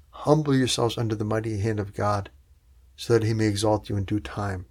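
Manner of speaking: Humble yourselves, hushed and unhurried; gentle repeat. Acted. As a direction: bring Humble yourselves down to a soft, calm reading. Preacher repeats Peter's words gently.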